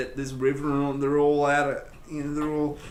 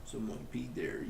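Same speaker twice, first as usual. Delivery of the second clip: mock Canadian accent; 4 dB quieter than usual. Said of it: "That's from a Disney movie".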